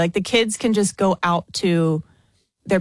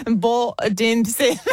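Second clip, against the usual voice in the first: bad Aussie accent; 4 semitones higher than usual. Shown as a demonstration. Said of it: "I'm so bad".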